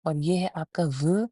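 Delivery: teeth touching the lip for व; v sound. Shown as a demonstration. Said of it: "ऊपर वाले अगले दो दांत". (दांत होंठ पर रखकर व)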